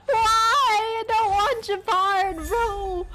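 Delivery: high, slow whining protest; exaggerated gamer whine; whiny complaint. Real, not acted. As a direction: whine like the pull betrayed you. Gacha pull gone wrong, whining.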